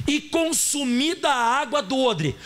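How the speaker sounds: drawn-out scripture line, slow; slow solemn verse reading; slow dramatic reading. Shown as a demonstration. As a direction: read it slowly, building suspense. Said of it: "E olha o que acontece".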